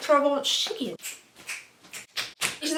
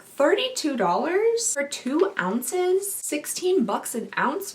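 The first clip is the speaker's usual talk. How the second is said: surprised; 4 semitones higher, slower than usual. Real, not acted. Shocked at price.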